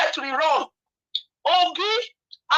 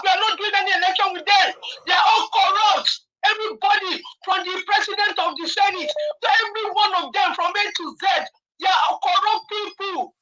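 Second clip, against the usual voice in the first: real upset outburst; 4 semitones higher than usual. Real, not acted. Upset caller rails at corrupt politicians, heated. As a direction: let real upset spill out. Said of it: "I'm, I'm really upset".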